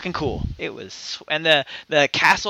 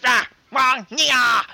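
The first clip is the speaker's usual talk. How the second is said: high, mocking imitation of rude service; rude, uninterested; 6 semitones higher, much slower than usual. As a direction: bark nonsense syllables like a curt server. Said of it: "always sound so fucking rude".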